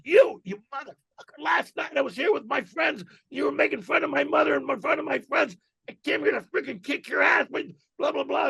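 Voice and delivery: high-pitched mock rant at the comic; retold yelling. Heckler accusing Otto of mocking his mother, high mock yelling. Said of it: "and yelling".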